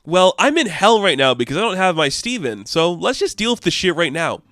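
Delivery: acted-out irritation; exasperated confrontation. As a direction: cut him off, fed up. Retelling her angry confrontation.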